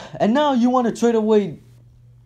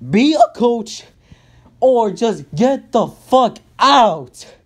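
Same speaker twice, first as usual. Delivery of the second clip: slow angry demand; 3 dB louder, slower than usual. Real, not acted.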